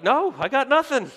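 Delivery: put-on a kid shrugging it off; carefree kid. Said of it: "you'd be like".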